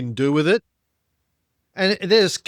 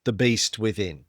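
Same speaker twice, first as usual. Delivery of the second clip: dramatic gravitas; 4 semitones lower, slower than usual. Acted. Dramatic build.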